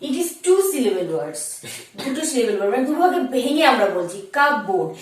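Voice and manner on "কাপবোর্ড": কাপবোর্ড with a sounded p and a full "board"; wrong pronunciation. Shown as a demonstration. Teacher reading out what is written, wrong pronunciation. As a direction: read কাপবোর্ড as spelt, cup-board. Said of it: "কিন্তু এটা কিন্তু wrong".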